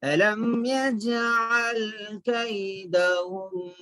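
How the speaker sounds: slow, measured tajweed chanting; Quran recitation. Shown as a demonstration. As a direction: draw out the long vowels, fading on the last. Recites verse for learners.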